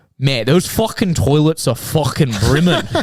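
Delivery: put-on Scouse accent, blunt delivery. Telling a story about a man coming out of the toilets, imitating a scouse accent. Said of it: "in this like Scouser accent just goes".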